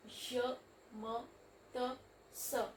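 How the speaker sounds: je, me, te, ce with a French E sound; French demo words. Shown as a demonstration. Teacher demonstrating je, me, te, ce in French. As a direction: show the French E sound clearly.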